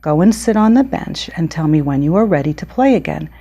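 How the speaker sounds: measured storybook reading with clear pauses; picture-book read-aloud. Acted. Author reading her book to children, storybook read-aloud. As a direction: read to young children, stressing key words.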